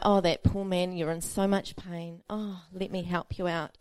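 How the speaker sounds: mock sympathetic wife. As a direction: play the sweet wife she wasn't, a bit hammed-up. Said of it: "a sympathetic wife, you know, loving".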